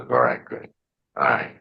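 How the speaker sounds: low, even reassurance; dad's calming voice. Retold or imitated. Dad coaching his son to calm down, reassuring. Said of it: "teach me to calm down".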